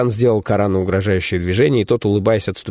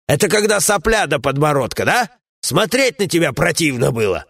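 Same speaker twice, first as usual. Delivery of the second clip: a lightly raised, scolding comrade's voice; gruff dwarf companion; 9 semitones higher than usual. Acted. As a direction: grumble at a foolish friend, voiced a bit higher.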